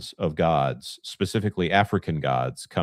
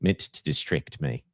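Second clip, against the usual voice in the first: put-on New Zealand-accented crab; crab impression. Host playing the crab on request, New Zealand-accented. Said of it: "pay you just to talk like that".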